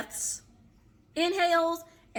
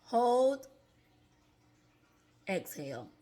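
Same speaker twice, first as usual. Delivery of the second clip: breathing cues; 2 semitones higher than usual. Shown as a demonstration. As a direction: guide the breath step by step. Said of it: "I'm gonna do it one more time".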